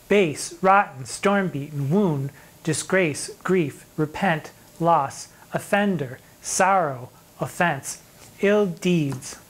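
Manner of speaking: each word set apart with a pause; listing the angry words. Shown as a demonstration. Teacher listing the sonnet's angry words for the class. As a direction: lay out every harsh word one by one. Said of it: "this is anger".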